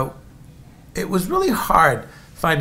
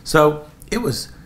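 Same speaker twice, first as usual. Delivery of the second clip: usual speaking voice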